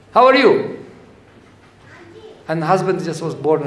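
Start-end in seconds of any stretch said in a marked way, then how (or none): 0.1-0.8 high, bright-voiced wife phoning; wife's sweet call. Wife calling husband at the office, sweet high voice. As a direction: ask it lovingly, pitched up.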